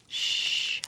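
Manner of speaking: whispered shh to calm; hush. Acted. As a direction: shush them gently. Comforting listener to sleep.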